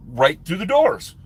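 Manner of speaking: normal talking voice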